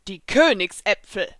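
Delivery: a touch of loud enthusiasm; enthusiastic. A narrator's reading. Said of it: "sagte Taurus enthusiastisch".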